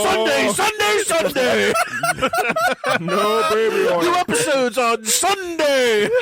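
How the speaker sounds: monster truck ad. Pretend. Sunday Sunday Sunday ad parody.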